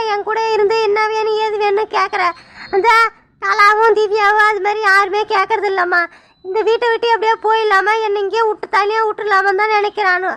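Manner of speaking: tearful, sincere mother-in-law; heartfelt. Acted. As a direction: pour out her heart, near tears. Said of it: "நீங்க மனசார தான் சொல்றீங்க". (மருமகளிடம் மனம் உருகி பேசும் மாமியார், கண்ணீருடன்)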